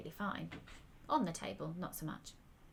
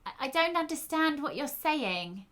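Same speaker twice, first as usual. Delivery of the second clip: louder and higher, every word exaggerated; loud, over-enunciated; 8 semitones higher, 7 dB louder than usual. A narrator's reading. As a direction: speak as if to someone hard of hearing. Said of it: "She spoke loudly and enunciated her words with an exaggerated mouth".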